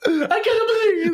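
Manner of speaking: very high, slow, whiny cartoon plumber; crying Italian plumber in falsetto; Luigi voice. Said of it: "Look at Luigi on the phone".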